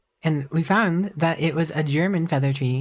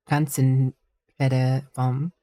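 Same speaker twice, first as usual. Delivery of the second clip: clumsy German accent; much slower than usual. Shown as a demonstration. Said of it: "scuffiest German accent ever".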